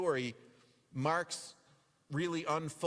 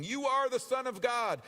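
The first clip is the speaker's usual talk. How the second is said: higher, louder spirit cry; voicing shrieking spirits, raised; mock shriek; 8 semitones higher, 3 dB louder than usual.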